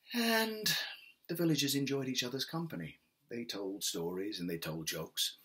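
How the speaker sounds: gentle storyteller reading a folk tale; story narration. A narrator's reading. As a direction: tell it like a bedtime story.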